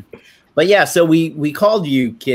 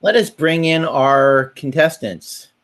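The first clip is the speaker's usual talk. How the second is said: flirty teasing dating host; 5 semitones higher than usual. Pretend. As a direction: tease out each bachelor's name. Introduces guests as dating contestants.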